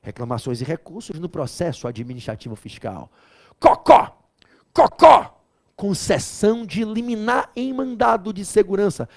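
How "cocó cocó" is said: cocó agudo, o segundo sussurrado; cocó de brincadeira. Shown as a demonstration. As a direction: brinque com a sílaba cocó, aguda. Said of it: "brincadeira de memorização". (professor brinca com cocó, agudo e depois sussurrado)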